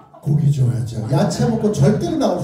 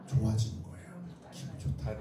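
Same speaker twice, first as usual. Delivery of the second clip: put-on sly kid thought; 17 dB quieter than usual. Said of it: "괜히 이러죠".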